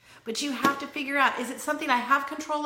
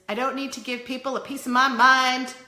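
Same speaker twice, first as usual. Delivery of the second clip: emphatic Southern twang, louder toward the end; Southern accent; 2 semitones higher, 5 dB louder than usual. Real, not acted. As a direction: say it with a touch of the American South. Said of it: "I said that with a Southern accent".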